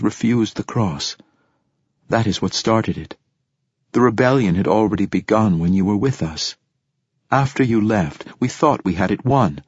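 a hint of a woman fighter recounting war; lightly voiced rebel woman. Voicing woman rebel's account.

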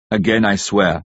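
a hint of a resonant old professor's vow. A narrator's reading. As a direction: professor renewing his oath, resonant and grave. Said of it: "the Professor's resonant voice".

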